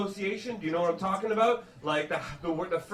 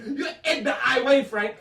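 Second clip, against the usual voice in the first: higher-pitched French Canadian mother; French Canadian accent; 4 semitones higher, 3 dB louder than usual. Retold or imitated. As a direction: mangle the idiom in French Canadian English. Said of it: "My mother say".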